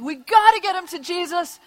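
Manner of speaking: urgent and emphatic; urgent insistence. Acted. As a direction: act out a friend rallying the others. Acted friends urgently seeking a way.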